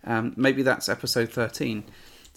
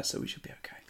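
breathy whisper, almost silent; conspiratorial whisper; whispered aside; 16 dB quieter, faster than usual. Real, not acted. Joking aside after tiny download stats.

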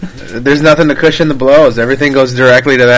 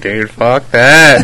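laughing; 2 semitones lower, much slower than usual. Retold or imitated. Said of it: "I'm like".

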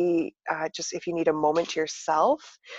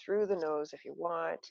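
soft, calm guided breathing; soothing relaxation guide, gently; therapist voice; 4 dB quieter than usual. Shown as a demonstration. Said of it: "I'm gonna put my therapist voice on now".

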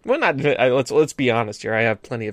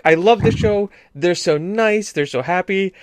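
higher-pitched retelling of an enthusiastic mother; sweet, higher mock-mom voice; gushing mom; 4 semitones higher than usual. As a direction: imitate a mom happily gushing. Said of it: "my mom was like".

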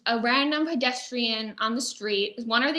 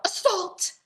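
higher, half-hearted cry of assault; mock yell; 8 semitones higher than usual. Pickpocket accusing the gentleman in the alley, mock yell. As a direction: call out the accusation. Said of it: "she would yell".

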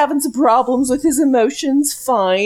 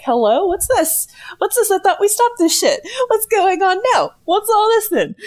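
puzzled demon; 8 semitones higher than usual. Retold or imitated. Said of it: "they're just like".

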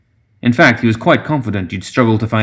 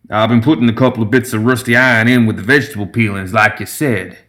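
lightly voiced eager gremlin brewer; a hint of a humble gremlin distiller; deferential gremlin. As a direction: report respectfully to the old master. Voices Summer reporting to the brewmaster.

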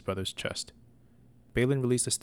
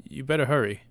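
a firm warning, higher and louder; 4 semitones higher, 5 dB louder than usual. Acted. Sir Balin to his dawdling brother, firm warning. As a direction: press him to hurry up. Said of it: "Sir Balin warned".

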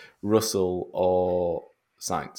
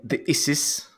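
put-on South African accent; 5 semitones higher, 4 dB quieter than usual. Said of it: "good to say in a South African accent".

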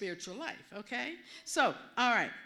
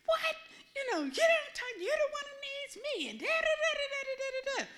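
indignant outburst; 13 semitones higher than usual. Retold or imitated. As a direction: fire back at him, hurt and furious. Angry retort to her father.

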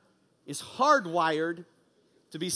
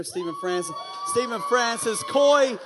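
calling out names; 3 semitones higher, 4 dB louder than usual. Real, not acted. Calling guests out in church.

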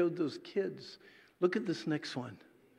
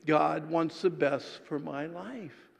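slow, measured unison recital; congregational recitation; slower than usual. Shown as a demonstration. Preacher and congregation reciting together, slow. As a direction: say it slowly together as a creed. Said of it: "Say that with me".

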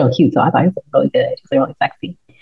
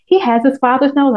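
shady king; 8 semitones higher than usual. Retold or imitated. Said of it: "He was like".

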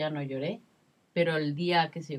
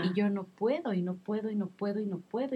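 despairing sob-like lament; 5 semitones higher than usual. Retold or imitated. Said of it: "Yo decía".

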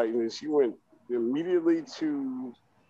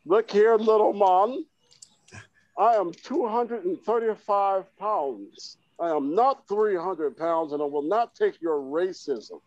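higher-pitched, drawn-out mock Australian; horrible Australian accent; 5 semitones higher than usual. Host retrying Liz's clapback at the coach, in a bad Australian accent. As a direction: have another earnest, clumsy go at an Australian accent. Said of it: "That's a horrible Australian accent".

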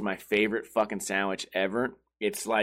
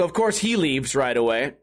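usual speaking voice

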